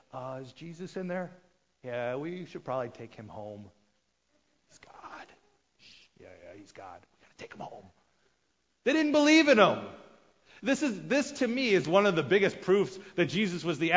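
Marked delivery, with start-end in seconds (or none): 0.1-7.9 much softer, whispered worry; hushed family whisper. Retold or imitated. Jesus' family whispering about taking him home. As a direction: whisper it so Jesus won't hear.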